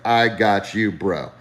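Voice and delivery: lightly voiced cool pilot, dropping at the end; imitated laid-back pilot. Pilot reassuring a panicking passenger, casually cool. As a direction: reassure like a buddy, letting the last word sink. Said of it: "he's talking to me just like this".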